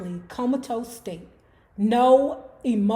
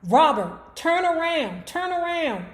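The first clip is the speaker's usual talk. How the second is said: mock scream; 5 semitones higher than usual. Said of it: "Mother Gordy began screaming".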